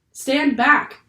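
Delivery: high, loud captain's order; panicked shout. A narrator's reading. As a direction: shout a warning in alarm. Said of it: "the captain shouted".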